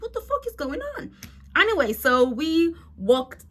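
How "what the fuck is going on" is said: high, disbelieving what the fuck; exasperated squeak of confusion; 1 incredulous. Retold or imitated. Stranded tourist learning even the local didn't know, incredulous.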